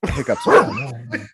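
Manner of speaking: squeaky triumphant. Pretend. Punchline in odd voice.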